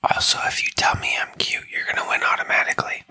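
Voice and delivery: hushed secret aside; whispering. Pretend. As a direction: lean in and whisper it. Joking aside about being cute.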